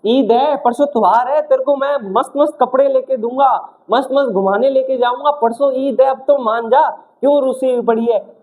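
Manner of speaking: mock pleading with promises of treats; coaxing. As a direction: play at winning over someone who is sulking. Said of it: "जैसे ये मना रहा है".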